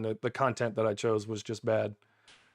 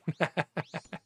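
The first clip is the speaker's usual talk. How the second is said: real short chuckle; quick run of chuckles; pleased chuckle; 2 semitones higher, 4 dB quieter than usual. Real, not acted. Streamer boasts of calling the drop, pleased chuckle.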